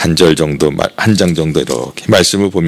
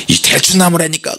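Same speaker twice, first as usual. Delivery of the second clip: 높은 목소리로 우기듯 흉내; 술자리 말다툼을 재연하듯; 말싸움; 9 semitones higher than usual. Retold or imitated. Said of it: "싸움해갖고". (우기는 말투)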